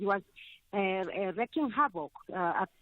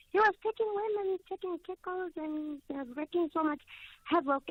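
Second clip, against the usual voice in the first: getting emotional; 9 semitones higher than usual. Real, not acted. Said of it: "I'm getting emotional".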